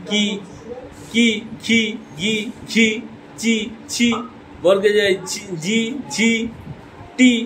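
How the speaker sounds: কা, খা, গা then কি, খি, গি sounded out one by one; teacher reciting কা খা গা, কি খি গি; syllable drill. Shown as a demonstration. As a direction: drill the vowel signs syllable by syllable. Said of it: "যেমন".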